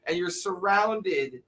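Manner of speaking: ordinary delivery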